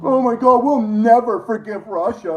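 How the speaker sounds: hammed-up whiny lament; mock their heartbreak; fake-tearful moan; mocking whine. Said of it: "mocking the shit out of these".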